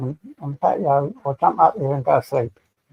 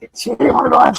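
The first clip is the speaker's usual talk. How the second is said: high excited call; 9 semitones higher, 6 dB louder than usual. Real, not acted.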